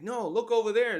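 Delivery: loud, high-pitched mock protest; emphatic retold objection. Recapper voices a reply to Saul, loud emphatic objection. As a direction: insist they look, voice jumping up.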